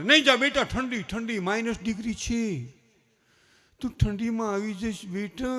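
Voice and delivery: mother pleading against the cold, lightly voiced; doting mother. Mother keeping son from winter outing, mock coddling. Mother fussing over only child.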